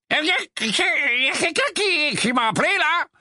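put-on high, halting sleepy old rogue; sleepy grumble. Mondingus waking up at the table, groggy. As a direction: stumble awake, confused. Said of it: "grommela Mondingus d'une voix ensommeillée".

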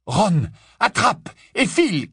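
high, urgent shout; high urgent call; shouted order. A narrator's reading. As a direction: yell across the room to Ron. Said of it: "cria-t-il".

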